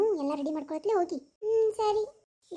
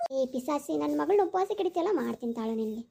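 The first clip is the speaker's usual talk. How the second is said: low ghostly threat; 5 semitones lower than usual. Acted. Dead mother's spirit threatening stepmother.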